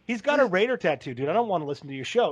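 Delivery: whiny fan brushing off the show; mock annoyed fan. Host mimicking fans who quit the show, lightly whiny. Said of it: "all of them are like".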